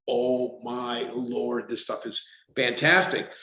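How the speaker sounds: a drawn-out, slow oh my Lord; amazed. Retold or imitated. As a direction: savour the discovery, stretching the first words. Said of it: "I'm like".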